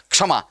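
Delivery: क्षमा starting straight on k-sh; no vowel before the ksh of क्षमा; correct ksha. Shown as a demonstration. Teacher gives the answer after wrong takes, clean ksh in क्षमा. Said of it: "क्या है?".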